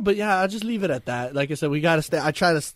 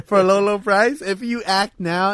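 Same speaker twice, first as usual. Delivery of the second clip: infomercial voice; 4 semitones higher, 4 dB louder than usual. Pretend. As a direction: sell it like a late-night ad. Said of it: "it's like an infomercial".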